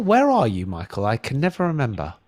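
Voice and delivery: ordinary talk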